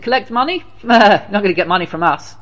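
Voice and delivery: high, incredulous echo, then a laugh; mocking pub drinker's refusal; scoffing. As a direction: laugh off the request.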